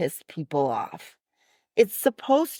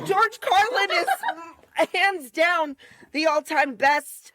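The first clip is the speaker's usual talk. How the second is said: emphatic fan enthusiasm; 7 semitones higher than usual. Retold or imitated. Retelling how she told him Carlin is best, excited. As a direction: gush about your favorite, voice lifted.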